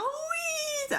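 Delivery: slow, high squealing yes; overjoyed cry. Retold or imitated. Mimicking a girl facing a big ice cream, slow high squeal. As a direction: stretch out a gleeful high yes. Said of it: "c'était genre".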